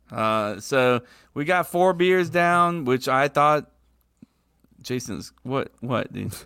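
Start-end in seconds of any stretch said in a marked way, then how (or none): 1.3-2.8 slow emphatic. Real, not acted.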